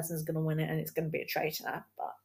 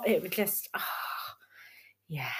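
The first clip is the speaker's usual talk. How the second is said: usual speaking voice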